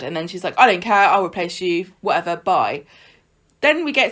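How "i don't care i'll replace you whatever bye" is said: mock mad. Recapping how she gets really mad, mildly mock-angry. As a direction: brush them off in a mildly cross retelling. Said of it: "she gets really mad".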